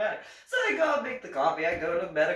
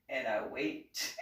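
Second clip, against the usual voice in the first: slower and lower, dragging the words; drawn-out wait; 8 semitones lower, 5 dB quieter, slower than usual. Retold or imitated. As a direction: let the boredom stretch the line out. Waiting endlessly in office.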